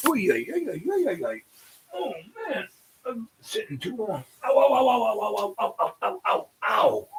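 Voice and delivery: high, soft moans of pain; sore groaning like mother. Real, not acted. Speaker getting up after sitting too long, high pained groaning. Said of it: "I sound like my mother".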